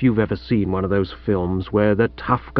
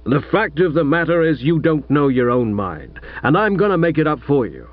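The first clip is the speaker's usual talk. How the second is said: lightly voiced gruff American father; a hint of an overbearing American millionaire; American tycoon father.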